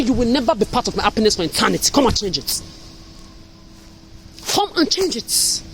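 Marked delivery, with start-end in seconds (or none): 4.5-5.6 higher, slow, sing-song dare; slow mocking dare, pitched up; mocking taunt. Real, not acted. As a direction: draw it out to goad them. Angry rant, repeated taunt.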